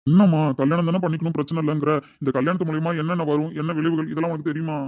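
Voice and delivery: incredulous questioning. Acted. Astrologer questions girl agreeing to marriage.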